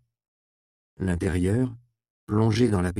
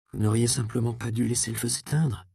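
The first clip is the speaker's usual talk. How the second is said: scolding; 4 semitones higher than usual. Acted. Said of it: "réprimanda la jeune fille".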